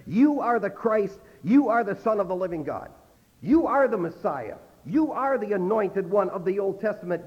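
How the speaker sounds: each YOU stressed at the start of "You are"; emphatic declaration. Retold or imitated. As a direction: declare it with firm weight on every YOU. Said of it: "in very emphatic way".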